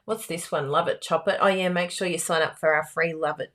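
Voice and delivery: ordinary talk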